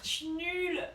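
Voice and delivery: sanglots dans la voix; en pleurs. Real, not acted. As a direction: pleurer en se plaignant de soi. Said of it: "Tu, tu pleures fort". (voix pleurnicharde)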